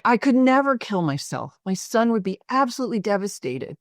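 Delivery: toned-down screaming, pitched well up; retold distraught yelling. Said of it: "he starts yelling and screaming".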